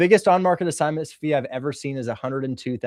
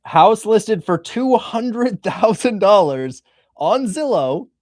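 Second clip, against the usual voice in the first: amazed emphasis; 9 semitones higher, 6 dB louder, much slower than usual. Real, not acted. Showing the amazing deal on screen.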